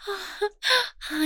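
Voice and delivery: usual speaking voice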